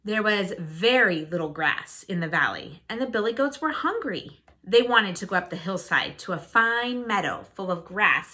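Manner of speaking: put-on lively read-aloud for young listeners; storybook narration. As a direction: tell it like a bedtime fairy tale. Reads a fairy tale to children.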